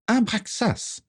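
very high, piping woman's voice; high-pitched squawk. A narrator's reading. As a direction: squawk the name in a perched voice. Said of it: "piailla-t-elle de sa voix haut perchée". (voix haut perchée, piaillante)

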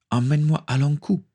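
high-pitched imperious order; pirate captain's command. A narrator's reading. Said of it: "ordonna-t-elle".

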